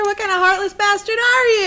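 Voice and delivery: mock-appalled appeal; mock guilt trip. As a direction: guilt them with hammed-up outrage. Acting Hazel playing the cancer card.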